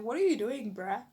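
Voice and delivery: mild indignant challenge. Retold or imitated. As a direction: confront him with bruh. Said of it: "I'm like".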